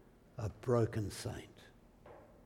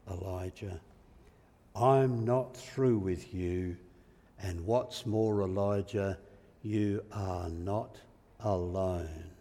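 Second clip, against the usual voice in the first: gentle but powerful; 5 semitones lower than usual. Acted. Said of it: "It is very gentle, yet it is extremely powerful".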